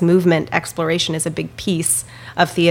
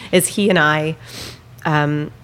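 teary-eyed. Real, not acted. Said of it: "sorry, I got a little teary-eyed".

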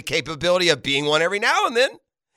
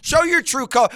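sneering wrestling villain; 9 semitones higher, 4 dB louder than usual. Acted. Host taunting fans on air.

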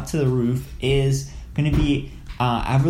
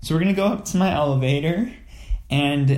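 panicked. Pretend. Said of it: "Why do you sound so panicked?".

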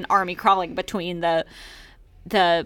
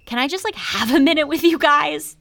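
put-on pleading high boy voice; 9 semitones higher, 5 dB louder than usual.

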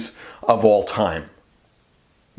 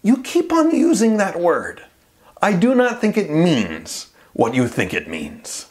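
higher, put-on swordsman voice with a dry tone; the Spaniard; 4 semitones higher than usual. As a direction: quote the film swordsman with mild mock gravity. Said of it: "that same Spaniard replies".

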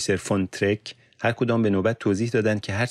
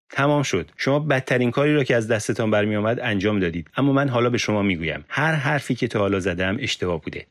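raised, agitated protest; angry outburst; 3 semitones higher than usual. Acted. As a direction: lash out at the interrogators. Yusuf's outburst at interrogators.

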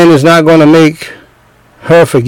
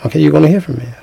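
straight-faced warning; 5 dB quieter, much faster than usual. Retold or imitated. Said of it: "with the face straight".

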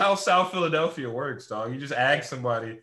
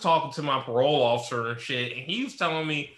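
mock parolee. Friend plays a parolee griping to a parole officer, laughing. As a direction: play a fed-up parolee, laughing through it. Role-play parolee bit.

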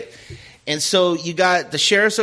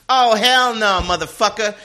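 indignant outburst; 6 semitones higher, 4 dB louder than usual. Retold or imitated. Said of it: "she goes".

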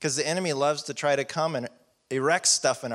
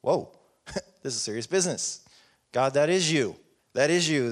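amazed realization. Retold or imitated. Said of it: "I was like".

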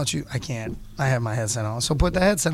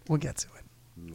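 much softer, at usual pitch; quiet aside; 9 dB quieter than usual. Real, not acted. Host deferring the Wednesday story, quiet aside. Soft repeat of the same promise.

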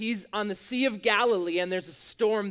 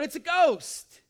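mildly frightened cry, pitched up; fearful cry; 5 semitones higher, slower than usual. Acted. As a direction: read it out with a touch of alarm. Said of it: "In fear, they cried out".

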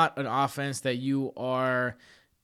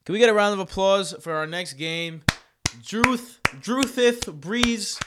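announcer voice; 6 semitones higher, 4 dB louder than usual. Pretend. Mock announcer introduction.

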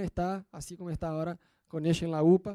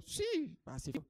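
marido distraído; 12 dB quieter, slower than usual. Retold or imitated. Marido que no entiende.

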